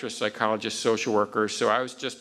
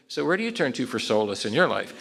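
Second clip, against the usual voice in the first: solemn therapist phrasing. Retold or imitated. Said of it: "I won't say".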